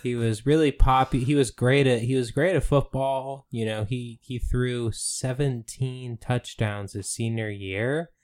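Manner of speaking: earnest eulogy. Retold or imitated. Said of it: "Is he like".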